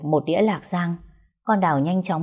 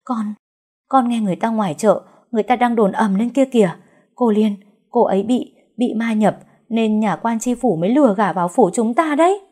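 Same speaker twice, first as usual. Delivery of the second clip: breathless maid blurting news, pitched up; out of breath; 5 semitones higher, 4 dB louder than usual. A narrator's reading. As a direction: gasp out the rumour in a higher voice. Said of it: "nói mà còn hụt hơi".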